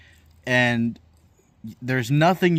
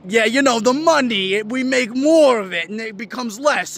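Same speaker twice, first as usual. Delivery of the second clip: mock explainer voice; 7 semitones higher than usual. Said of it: "And they're like".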